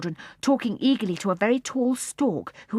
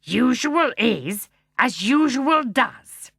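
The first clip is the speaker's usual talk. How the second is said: gruff bear voice; 5 semitones higher, 6 dB louder, much slower than usual. Acted. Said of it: "gruff voice".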